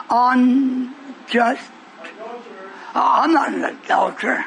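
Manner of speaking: smug, scornful mock prayer; mocking the self-righteous Pharisee. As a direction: sneer out the Pharisee's boasts. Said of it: "said within himself".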